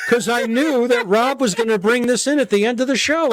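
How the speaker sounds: amused explanation; laughing. Real, not acted. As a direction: guest laughing about his background. Laugh heard.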